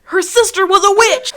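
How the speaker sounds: high, loud, fast protest; mock indignation. Host defending her joke to co-host, mock indignant. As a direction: protest in hammed-up outrage.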